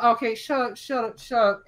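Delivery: high, repeated shut-down; acted impatient interruption; exasperated hushing. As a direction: cut off a babbling kid. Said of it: "and she's like".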